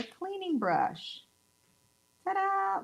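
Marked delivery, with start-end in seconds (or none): 2.2-2.8 showy ta-da. Real, not acted. Reveals the brush trick.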